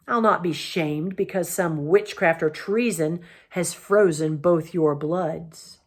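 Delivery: slow, scornful end to a tirade; king scorning his lords' cowardice; angry king. Acted. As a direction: sneer at their frozen bloods. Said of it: "roared Myraz".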